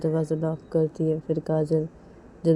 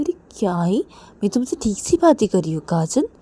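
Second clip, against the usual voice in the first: lightly voiced girl defending herself; a touch of protest; mild defensive reply; 4 semitones higher, 4 dB louder than usual.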